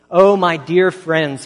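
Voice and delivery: loud, slow, impassioned plea; a slow, loud, heartfelt appeal from the pulpit; pleading. Retold or imitated. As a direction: cry out to them, begging. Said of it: "he pleaded".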